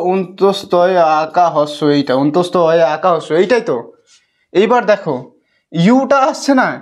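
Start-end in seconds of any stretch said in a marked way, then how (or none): 0.1-3.3 অন্তস্তয় আকা হস্য recited low and slow; low, measured naming of each letter; sound-by-sound spelling. Shown as a demonstration. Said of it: "উচ্চারণ কি বলেছিলাম".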